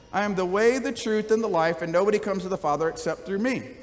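a touch of harsh, dismissive edge on "I am the way"; meanly said. Shown as a demonstration. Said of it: "you could say it very meanly".

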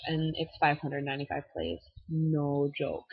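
broad Minnesota vowels; Minnesotan accent. Real, not acted. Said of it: "There's my Minnesotan accent".

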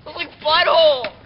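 disgusted ew. Real, not acted. Disgusted outburst continues.

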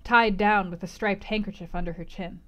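calm, even audiobook reading; measured literary narration; story narration. A narrator's reading. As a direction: read the scene like a novel aloud. Reads novel narration.

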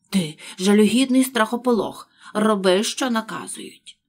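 loud contemptuous yell; angry shout. Acted. Rabbit yelling at frightened Pat, loud.

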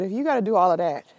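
retold advice. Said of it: "I said".

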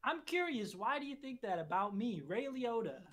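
mildly wounded celebrity; hint of a famous actor seeking an answer; Ray Liotta. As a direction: lightly impersonate a puzzled film star. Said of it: "yes, I am Ray Liotta".

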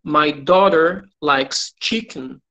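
slow, clear English; slow teacher read for repetition; slow model sentence. Shown as a demonstration. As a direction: model it slowly for them to repeat.

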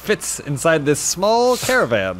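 put-on British accent. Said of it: "doing this accent the whole time".

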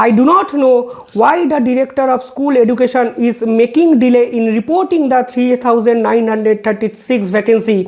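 reading a court order word by word, very slow; slow, measured legal read-out; slow formal reading. Acted. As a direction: spell out each figure deliberately for the record. Quotes judge's observation.

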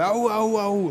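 spartan war cry. Shown as a demonstration. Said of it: "vosotros hacéis lo de".

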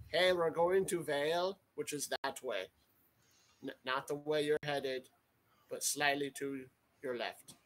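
booming call across a distance; magically amplified voice. Pretend. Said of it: "cast Thaumaturgy to make my voice three times louder".

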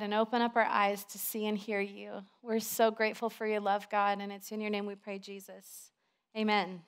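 hushed, sincere prayer voice; leading prayer. Real, not acted. Leads the congregation in prayer.

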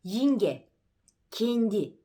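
"Yinge" said with an I in place of the E; E via i. Shown as a demonstration. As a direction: start from I in "Yinge", then "kendi" closed. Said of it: "Önce i ile söyleyin".

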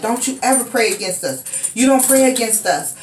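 imitating him lashing out, rushing the words; angry threat. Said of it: "And he's like".

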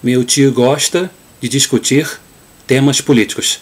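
Rio Portuguese with hissed sh sounds in "gosta" and "políticos"; Carioca accent. Shown as a demonstration. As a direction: read it like a Carioca. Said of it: "One more time".

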